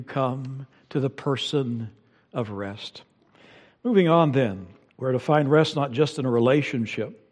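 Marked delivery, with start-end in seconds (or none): 0.0-3.0 softer, fading to a hush; gentle whisper of Christ. Retold or imitated. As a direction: murmur the invitation gently. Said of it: "Christ is whispering to you".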